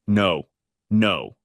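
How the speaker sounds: a touch of a sob, understated; lightly sobbing denial; mild sob. A narrator's reading. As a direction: protest through light tears. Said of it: "sobbed Scylla".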